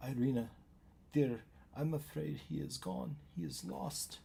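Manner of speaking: muffled through a door; muffled voices. Acted. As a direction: voices heard through a wall. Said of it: "muffled voices talking to each other".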